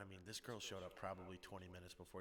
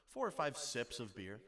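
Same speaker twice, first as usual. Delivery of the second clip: naive answer; 3 semitones higher, 6 dB louder than usual. Retold or imitated. Max's naive answer, retold.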